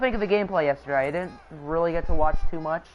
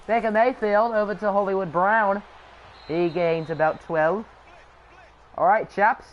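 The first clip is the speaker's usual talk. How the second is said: British-accented play-by-play; lightly put-on British accent. Shown as a demonstration. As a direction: call the game like a Brit. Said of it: "Do a British accent".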